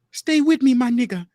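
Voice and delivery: high, loud mock Asian accent; imitating an Asian accent, pleading. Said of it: "in the Asian accent".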